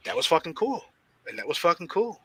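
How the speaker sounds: softly savoured, as if to himself; quiet awe. Retold or imitated. Wrestler recalling an idol's kindness, quiet awe. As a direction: drop the volume and relish it.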